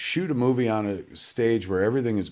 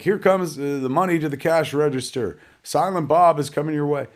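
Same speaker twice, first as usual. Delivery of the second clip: higher-pitched parody of a director's cues; mock calling out; 4 semitones higher than usual. Director parodying effects cues for his own movie, mock calling out. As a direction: playfully call it out like a director on set. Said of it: "you see Zach literally calling out".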